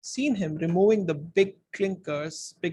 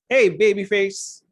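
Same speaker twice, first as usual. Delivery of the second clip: loud, higher-voiced jeer; whiny taunt; 3 semitones higher, 9 dB louder than usual. A narrator's reading. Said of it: "whiny voice taunting someone".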